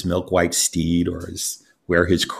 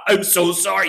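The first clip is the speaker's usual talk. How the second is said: horrified apology; 10 semitones higher than usual. Acted. Beggar realizes he teased the real king, high panicked cry. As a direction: blurt it in panic.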